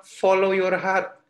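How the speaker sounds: "Follow your heart" said slowly, word by word; quoting the world's advice, drawn out; slow quote. Shown as a demonstration. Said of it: "Banyak orang bilang". (kutipan pelan, kata demi kata)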